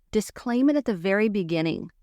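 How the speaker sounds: ordinary talk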